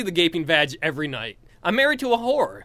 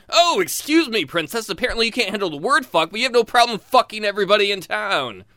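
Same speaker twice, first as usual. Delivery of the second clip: sarcastic retort; 4 semitones higher, 4 dB louder than usual. Retold or imitated.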